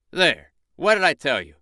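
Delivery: high, loud boastful rooster; crowing proud rooster. Acted. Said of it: "said Red Rooster".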